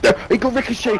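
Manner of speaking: high incredulous exclamation; can't believe it; disbelief. Real, not acted. Disbelief at game mechanic.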